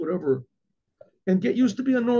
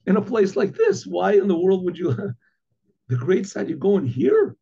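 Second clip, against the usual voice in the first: incredulous innkeeper; 3 semitones higher, 3 dB louder than usual. Retold or imitated. Innkeeper to searching pupils about the great rabbi, incredulous. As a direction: voice an incredulous, rising question.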